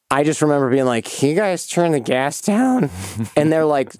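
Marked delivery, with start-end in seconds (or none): 1.0-2.9 slow, higher-pitched gassed-up drawl; loopy on gas. Retold or imitated. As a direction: imitate being woozy on laughing gas. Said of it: "once it kicks in".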